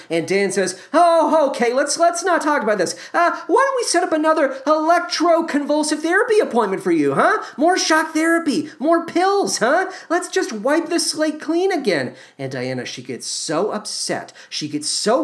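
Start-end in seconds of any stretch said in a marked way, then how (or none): 0.9-12.1 much higher, pushy fake-cheerful deflection; hammed-up husband. Husband dodges son question, pushing shock therapy in mock cheer. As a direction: steer her away with false cheer.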